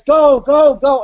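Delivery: high, loud cheering on. Retold or imitated. Spectator cheering the rider past, loud. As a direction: urge the rider on. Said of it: "a dude says".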